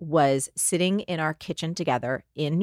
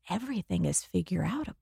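dawning realization; 3 semitones higher, 6 dB quieter than usual. Retold or imitated. Repeating mom's phrase, realizing.

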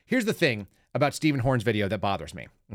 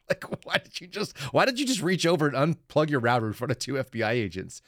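incredulous; 4 semitones higher than usual. Retold or imitated. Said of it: "And so I go".

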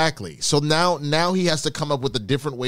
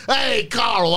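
loud, higher greeting call; family reunion shout; 10 semitones higher, 4 dB louder than usual. Retold or imitated. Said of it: "you're like".

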